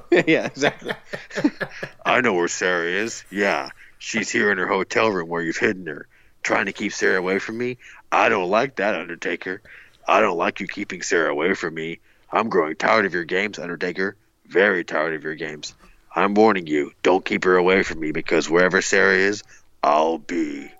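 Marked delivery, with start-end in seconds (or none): 2.0-19.4 lightly voiced menacing stalker; heavy breathing phone whisper. Shown as a demonstration. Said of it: "I'll try my Stalker voice here". 19.8-20.7 low breathy stalker whisper; creepy whisper. Shown as a demonstration. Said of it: "I'll try my Stalker voice here".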